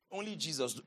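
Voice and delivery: low and soft; hushed answer. Real, not acted. Preacher answering his own question to the congregation, low and hushed. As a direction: drop right down in pitch and volume.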